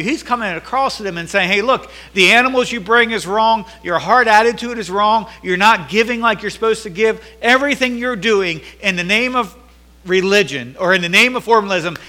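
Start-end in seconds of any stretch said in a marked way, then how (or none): 1.5-12.0 preaching rebuke. Acted. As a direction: drive home the charge. Preaching at full force.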